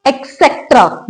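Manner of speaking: एक्सेट्रा said with a wrong "ek" k-sound; common mispronunciation. Shown as a demonstration. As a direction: say एक्सेट्रा as "ek-SET-ra", with a k. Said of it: "No, that's absolutely wrong".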